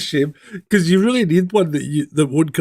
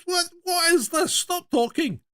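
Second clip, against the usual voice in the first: a touch of rattled disbelief, voice pitched up; retold bewildered protest; 5 dB quieter than usual. Owner telling the phone off, bewildered protest.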